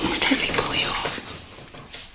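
slow, breathy flirty whisper; seductive whisper. Acted. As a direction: tease it in a whisper.

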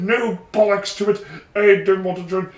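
put-on British accent. Real, not acted. Retelling a refusal to join, British accent. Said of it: "this is confoundingly more British too".

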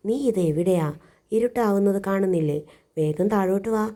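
calling urgently as night falls. Acted. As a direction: shout it up to the kite. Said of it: "വിളിച്ചു പറഞ്ഞു".

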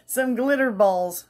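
high, slow amused repeat; delighted, drawn-out glitter balls. Shown as a demonstration.

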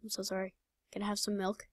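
soft, hushed pleading; meek mock apology. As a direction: plead meekly with head down. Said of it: "I'm just sitting here, like, with my head down".

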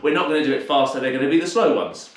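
slightly winded while explaining; out of breath. Real, not acted. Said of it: "I'm a little bit, uh, out of breath today".

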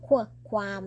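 "qual" as short "kwuh", then "ความ" with the same kw; demonstrated "qual ความ", kw glide in both; kw sound. Shown as a demonstration. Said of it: "เราออกเสียง qual ความ".

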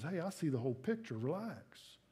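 calm them like a caring father; gentle reassurance. Acted. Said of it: "whispers in our heart and says".

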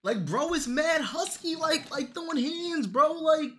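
high-pitched outraged disbelief; incredulous squeal. Real, not acted. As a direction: squeal at how ugly he looks. Shocked by ugly character render.

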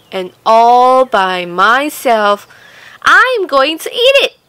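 loud proud hen refusing to share. Acted. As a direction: list every chore proudly as the hen.

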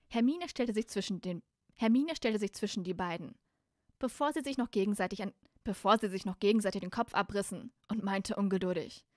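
clearly articulated storybook reading; story narration. A narrator's reading. Reader tells how Hermine turns on Malfoy, story narration. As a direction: narrate the scene evenly and audibly.

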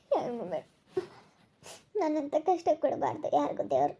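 half-whispered weeping over her fate; crying. Acted. Woman bewailing her fate to God, softly weeping. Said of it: "ಬಿಡು, ಅಳ್ಬೇಡ".

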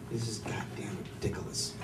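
low, soft mumbled ridiculous; muttered take. Retold or imitated. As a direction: mumble "ridiculous" under your breath. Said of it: "it's pronounced ridiculous".

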